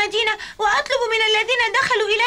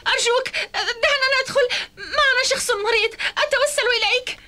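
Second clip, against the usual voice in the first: tearful pleading. Acted. Begging entry for sick friend.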